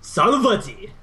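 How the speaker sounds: lightly voiced hype announcer intro; GSL announcer voice. Caster doing a mock GSL player intro. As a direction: boom out the player name like a tournament announcer. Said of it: "you're just gonna do the voice".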